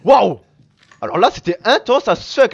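loud, high amazed exclamation; wowed, keyed-up outburst; exhilarated relief. Real, not acted. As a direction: let out the adrenaline after a fight. Relief after intense fight.

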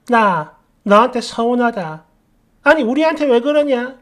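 lightly voiced aggrieved mother-in-law; mother-in-law's reproach. Quoting mother-in-law confronting her.

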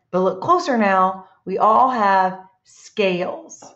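picture-book read-aloud with a rise before each animal; lilting riddle rhythm with little pauses. Acted. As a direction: read it to a class, drawing out the last line. Reads next riddle aloud.

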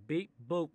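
mock robot beep boop; a lightly voiced robot beep; robot noise. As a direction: chirp it like a toy robot. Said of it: "That's what a robot makes".

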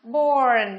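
"born" set apart, falling, with an "or" vowel; model pronunciation. Shown as a demonstration. Teacher shows students the first word, modelling "born" with "or". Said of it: "phát âm là".

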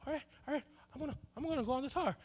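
high, soft, hurried pep talk; self-talk bravery. Retold or imitated. Little kid heading to the tower, nervously building up bravery. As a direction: psych yourself up under your breath. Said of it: "you start to be brave".

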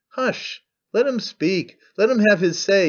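audience yelling. Acted. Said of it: "yelled another section".

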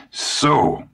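sudden high exclamation; exclaiming. A narrator's reading. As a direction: burst out with it. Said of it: "Dusanda exclaimed".

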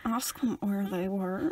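slow, very quiet, low prompt; Arnott. Acted. Feeding interview questions as a TV detective, slow and hushed. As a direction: drop low and soft, drawing it out. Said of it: "be like Arnott in the first series".

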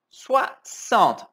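Soixante said with a clear S sound, swa-sant; crisp teacher model of Soixante; careful French. Shown as a demonstration. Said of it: "Cuidado aqui".

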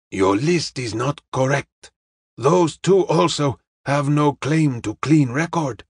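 measured, formal correction; a hint of Charlie Chan's deliberate delivery; lightly voiced Chinese detective. Detective corrects the young woman's list, measured and formal.

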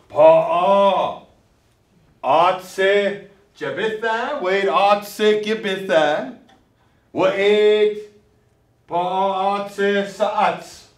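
each word said loudly and separately, "pa'a" to "sa'ats"; loud drill words. Shown as a demonstration. Teacher drills words loudly and clearly for the class to repeat. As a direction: call out "pa'a" and "atse" one at a time for the class to repeat. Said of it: "Ah, say it".

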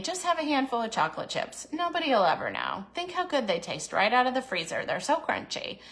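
put-on soft, coaxing inner child wheedling for a treat; tempting toddler voice. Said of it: "That's my toddler voice".

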